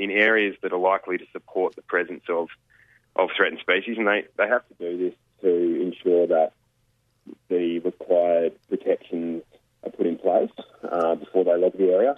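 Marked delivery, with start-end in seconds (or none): 3.1-12.1 muffled, as if through a hand; muffled voice, mouth covered. Real, not acted. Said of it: "you've just gone a bit muffled sounding".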